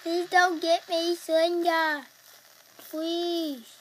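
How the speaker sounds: loud desperate begging; frightened pleading. Real, not acted. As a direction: beg for mercy, panicking. Pleading with the monster.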